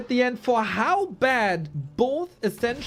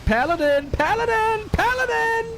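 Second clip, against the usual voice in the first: building hype; 4 dB louder than usual. Real, not acted. Calling a hero's clutch play.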